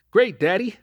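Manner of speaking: put-on high, loud, bright kid voice; beaming boy. A narrator's reading. Son Dean answering dad, beaming and high. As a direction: beam at dad. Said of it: "beamed Dean".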